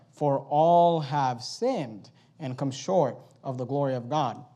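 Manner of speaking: slow reading with ALL stressed; "all" drawn out and weighted, slow reading; emphasized reading. Shown as a demonstration. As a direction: lean on the word all as you read. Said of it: "Notice how I read the verse".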